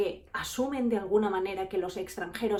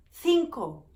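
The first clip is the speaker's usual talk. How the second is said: high, louder blurted number; mock flustered clerk; nervous clerk; 6 semitones higher, 5 dB louder than usual. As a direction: blurt it out in a panic. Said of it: "entró en pánico".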